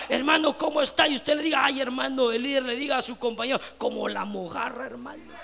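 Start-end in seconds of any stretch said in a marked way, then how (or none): 1.6-5.3 weary, downcast reply. Retold or imitated. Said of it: "con ganas y sin ganas".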